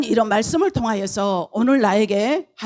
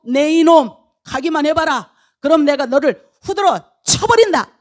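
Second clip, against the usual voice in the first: loud mock threatening warning; acted threat; 3 semitones higher, 4 dB louder than usual. Angel with drawn sword to Balaam, acted threat. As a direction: warn him off forcefully.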